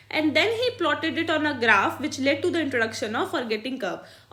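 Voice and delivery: slow, careful read-aloud of a textbook line; dictating from the book. Shown as a demonstration. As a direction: read each word out slowly for the class. Reads textbook English aloud.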